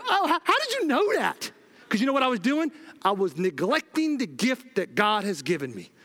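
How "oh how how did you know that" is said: higher-pitched, startled disbelief; imitating your own stunned reaction; retold freak-out. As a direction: act out being freaked out and amazed. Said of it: "I was, like, freaking out".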